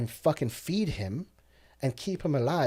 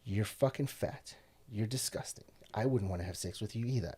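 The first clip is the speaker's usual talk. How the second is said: harsh self-criticism; 5 dB quieter than usual. Retold or imitated. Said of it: "I, like, ripped myself apart".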